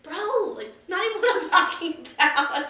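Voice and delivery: laughing bro voice, done with them; exasperated Jesus. Retold or imitated. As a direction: play Jesus as a fed-up buddy, cracking up. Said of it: "Jesus is like".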